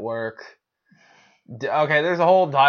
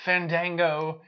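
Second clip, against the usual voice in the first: bragging; 5 semitones higher than usual. Pretend. Bragging about his cards.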